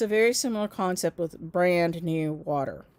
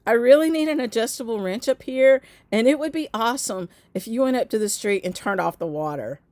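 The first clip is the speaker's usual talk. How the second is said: calling out from upstairs; 3 semitones higher, 4 dB louder than usual. Retold or imitated. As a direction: call up from the next floor, pitched up. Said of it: "I hear him yell my name".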